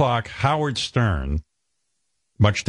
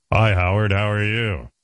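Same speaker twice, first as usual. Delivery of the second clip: smooth radio voice. Retold or imitated. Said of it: "They were real radio guys".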